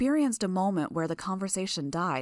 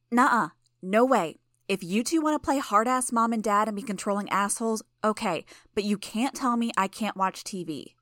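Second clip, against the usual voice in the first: louder, higher indignant outburst; loud protest; 4 semitones higher, 4 dB louder than usual. Acted. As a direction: refuse them outright. Imp protests loudly.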